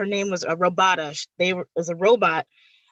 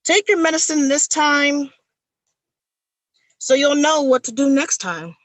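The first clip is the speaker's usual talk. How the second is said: loud, higher spoken word; poem recitation; 5 semitones higher, 6 dB louder than usual. Acted. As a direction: declaim it with urgency. Performs poem Take Your Medicine.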